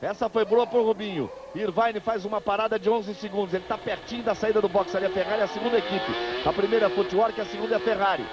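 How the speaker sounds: brisk live race call; motorsport commentator. Real, not acted. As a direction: call the pit stops live, upbeat.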